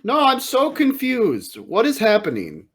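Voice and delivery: bewildered. Acted. Acts a bewildered character watching wrestling.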